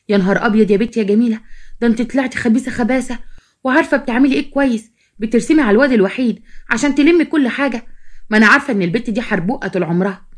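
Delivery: indignant storybook gossip; scheming sister, indignant. Acted. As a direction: voice a sister tearing into a sly girl. Narrator voices scheming sister gossiping.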